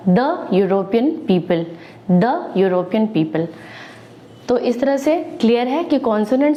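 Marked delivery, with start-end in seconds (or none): 0.1-3.5 the European people, "duh", slow; slow classroom model, the as "duh"; the with a short "duh". Shown as a demonstration. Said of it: "द आएगा".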